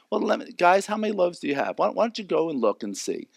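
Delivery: soft, patient asking; Jesus asking his disciples gently, soft and patient; gentle questioning. Retold or imitated. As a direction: ask it kindly, no scolding. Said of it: "But he asked questions".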